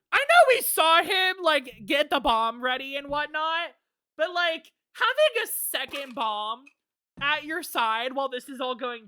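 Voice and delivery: high, loud, incredulous commentary; amused disbelief. Real, not acted. Player can't believe the second bomb plot, high incredulity.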